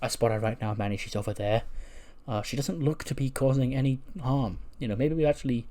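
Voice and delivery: hushed nature documentary commentary; nature documentary host. Acted. Spotter reporting to Manny on her movements, in a hushed documentary voice. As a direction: softly narrate like a wildlife host watching an animal. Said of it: "he's whispering like he's a nature documentary host".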